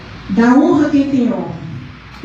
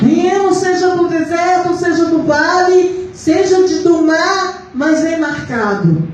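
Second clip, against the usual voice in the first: raised, insistent preaching pitch; 4 semitones higher than usual. Real, not acted. Urging the church to surrender totally to God, preaching. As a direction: press each phrase on the congregation.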